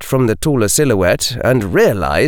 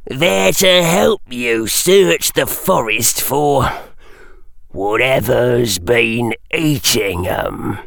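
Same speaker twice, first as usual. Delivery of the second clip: put-on spiteful old caretaker; slower than usual. A narrator's reading. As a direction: savour the threat like a mean old caretaker. Caretaker gloating.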